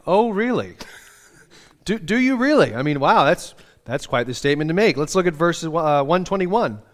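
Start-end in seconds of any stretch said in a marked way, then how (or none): 0.1-5.0 mock disbelief. Pastor voicing a skeptical listener, mock surprised. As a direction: tease the psalmist with amused doubt. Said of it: "you almost want to be like".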